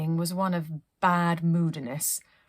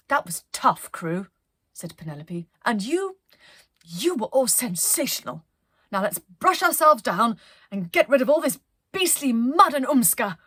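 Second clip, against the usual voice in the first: praising captain; 3 semitones higher, 6 dB louder than usual. Acted. Penelope praising crew.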